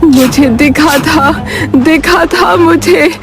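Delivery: grandmother seeing visions, slowing and rising; an old seer gripped by what she saw; dying grandmother's fearful prophecy; ominous prophecy. Acted.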